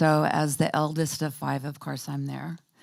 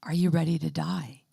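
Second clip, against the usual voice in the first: gently. Retold or imitated. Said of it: "kind of gently said".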